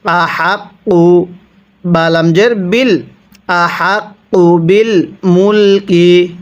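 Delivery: drawn-out chanted recitation; slow Quran recitation. Shown as a demonstration. Teacher recites for students to copy, slow chant. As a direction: stretch the vowels and hum the nasal. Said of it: "তাহলে কিভাবে পড়ব?".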